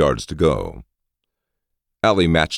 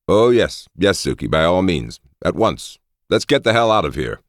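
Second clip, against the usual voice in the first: eager consent; 6 semitones higher, 4 dB louder than usual. A narrator's reading. Happy lord gives eager consent.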